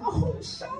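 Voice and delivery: squeaky high remembering; high mock gasp. Mom's friend recalls Sean, high squeak.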